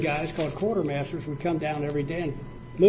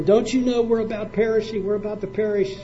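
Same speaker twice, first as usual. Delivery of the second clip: higher, urgent and frightened; scared, excited plea; 5 semitones higher than usual. Shown as a demonstration. Preacher voices disciples begging Jesus in the storm, urgent and scared. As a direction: cry it out like men shaking him awake in a storm. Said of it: "They're excited. They're scared".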